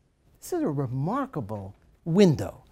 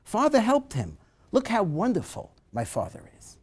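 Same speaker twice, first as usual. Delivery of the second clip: excited cry; 4 semitones higher than usual. Retold or imitated. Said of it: "cries out with the good news".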